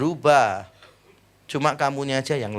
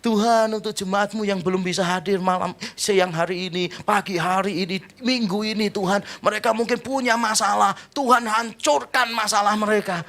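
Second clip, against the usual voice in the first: worship leader praying; 5 semitones higher than usual. Retold or imitated. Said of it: "ada beberapa worship leader kan gitu".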